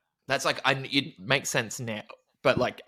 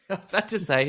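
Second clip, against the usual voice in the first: high, fast, through laughter; laughing; 8 semitones higher, 4 dB louder, much faster than usual. Real, not acted. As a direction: laugh while saying it. Laughing at shared thought.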